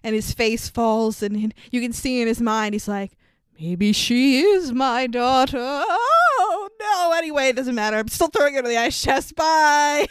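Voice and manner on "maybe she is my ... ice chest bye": hammed-up dawning doubt, jumping high, then breezily dropped; lightly played villain shrugging off his conscience; mock wavering villain. Acts villain wavering, then flippantly dismissing.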